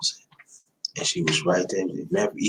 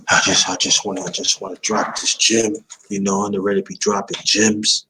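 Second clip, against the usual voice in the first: loud, excited-to-share burst at usual pitch; raised volume, pushing the words out; too loud; 5 dB louder than usual. Real, not acted. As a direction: say it too loud, carried away. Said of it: "I'm too loud".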